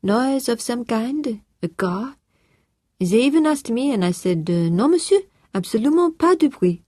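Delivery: put-on high, French-accented, polite and a little flustered; French-accented housekeeper. A narrator's reading. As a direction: play the French housekeeper, eager to report.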